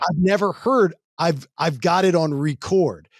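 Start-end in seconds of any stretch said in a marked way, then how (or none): 1.2-3.1 slow, cool and calm quote; cool delivery. Retold or imitated. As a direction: say it slow and unbothered. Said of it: "that sounded cool".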